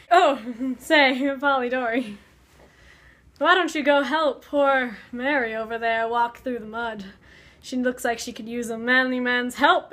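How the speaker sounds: teasing, laughing mock Byron voice; playful mocking friend. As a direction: egg him on with a chuckle. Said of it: "Byron and Polidori are hanging out".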